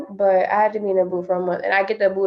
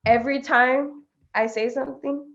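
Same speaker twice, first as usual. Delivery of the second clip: "every time I say something" broken by a pause, softly; dramatic pause; 3 semitones higher, 4 dB quieter than usual. Real, not acted. Teased player complaining about her friend, dramatic pause before "I say something". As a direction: hold back, then let "every time I say something" out in pieces. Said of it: "I just heard this dramatic pause".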